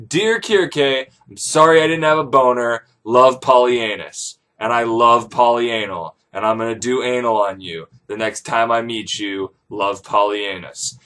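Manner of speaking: low, measured letter-reading voice; dictated letter. Retold or imitated. Servant dictating an apology letter, low and measured. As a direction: intone it like a formal letter.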